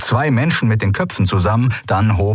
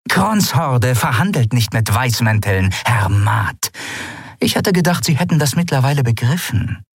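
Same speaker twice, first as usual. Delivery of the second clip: higher, cold pirate captain; disappointed captain; 7 semitones higher than usual. Acted. Pirate captain condemning her first mate, coldly disappointed. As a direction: pronounce the verdict coldly.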